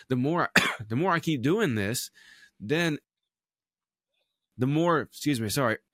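throat catching, pushing through; trying to clear a sore throat; steadying shaky voice. Real, not acted. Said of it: "Sorry, I'm getting choked up".

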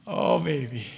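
a hint of God answering tenderly, dropped low; lightly voiced God. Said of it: "And God's like".

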